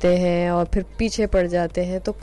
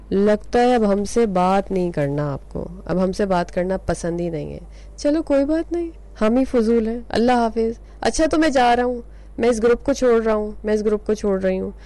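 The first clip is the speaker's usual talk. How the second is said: emotional blackmail. Retold or imitated. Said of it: "emotional blackmailing वाला होता है".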